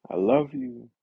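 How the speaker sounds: half-joking retold yell of self-love; screaming I love you. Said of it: "Just screaming it".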